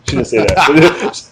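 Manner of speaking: usual speaking voice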